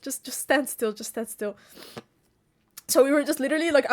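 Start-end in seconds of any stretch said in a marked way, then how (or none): 0.0-1.6 soft, fading reassurance; retold under-the-breath warning; hushed instruction. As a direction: murmur it to someone beside you. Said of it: "I was just like".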